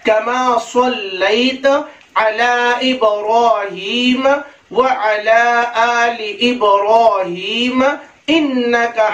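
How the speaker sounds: deliberate model reading; careful recitation. Shown as a demonstration. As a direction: recite evenly, stretching the long vowels. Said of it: "ये सही तलफ़ुज़ है".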